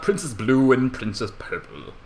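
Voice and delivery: usual speaking voice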